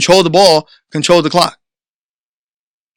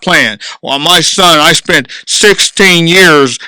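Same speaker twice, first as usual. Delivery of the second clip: complaining parent; 3 semitones lower than usual. Retold or imitated. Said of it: "parents who they go and sit on the bench".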